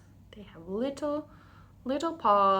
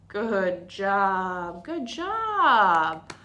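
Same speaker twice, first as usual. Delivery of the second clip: cheery praise; 6 dB louder, much slower than usual. Real, not acted. Praising kids after song.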